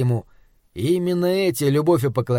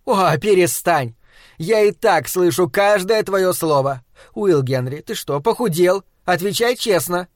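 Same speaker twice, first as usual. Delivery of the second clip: booming wife; 3 semitones higher than usual. Acted. Wife's voice.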